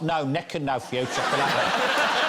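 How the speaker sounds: slow, high, loud broad Black Country voice, laughing; Black Country accent. Retold or imitated. Guest parodying Black Country locals, hammed-up Black Country accent. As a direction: ham up a thick Black Country drawl. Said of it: "They sort of talk like that".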